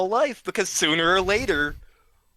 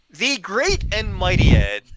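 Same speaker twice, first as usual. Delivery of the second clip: louder, mock-epic announcement of the great and mighty Ed; mock grandeur; 4 semitones higher, 8 dB louder than usual. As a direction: proclaim it like a herald, tongue in cheek. Mock-grand title for friend.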